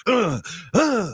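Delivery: mock effortful huffs; angry hiking grunts. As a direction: huff your way angrily uphill, acted out. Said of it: "I was hiking angry".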